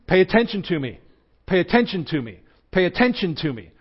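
a hint of a whiny gadget demanding notice; buzzing phone pestering its owner, lightly voiced; nagging phone voice. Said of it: "my smartphone kept sort of saying to me".

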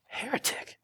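hissed accusation. Pretend. Scribes accusing Jesus.

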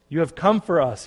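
calls out in glad surprise; shouting. A narrator's reading. Youngest son shouting to his returning brother. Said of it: "he shouted".

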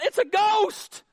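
high, loud, drawn-out cry of alarm; terrified cry. Acted. Pastor acting disciples who saw Jesus walking on water, terrified cry. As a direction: build to an exclamation of fright. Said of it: "Notice the exclamation point".

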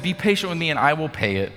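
high, hurried acted plea; begging. Fellow servant begging his creditor, mildly acted pleading. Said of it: "begged for a little more".

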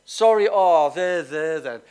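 a mock there-there, loud and dismissive; hammed-up pity. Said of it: "Sympathy says".

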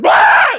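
sudden high, loud scream; mock demon scream. Demon interrupts someone's devotions, sudden loud scream. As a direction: burst out with a piercing shriek.

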